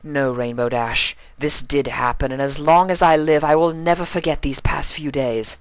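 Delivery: high loud vehement protest; building outburst. A narrator's reading. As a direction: swing round and protest fiercely. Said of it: "spun on the cyan blue flyer".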